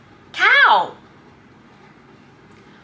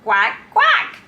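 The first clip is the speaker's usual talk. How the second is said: low demo quacking; 9 semitones lower than usual. Shown as a demonstration.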